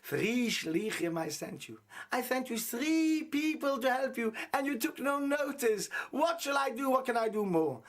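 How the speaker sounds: a hint of a patient rebbe scolding slowly; lightly voiced rebbe. Rebbe scolding the drowned man in heaven, slow and weighty. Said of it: "So the Rebbeinu Shalom says to him".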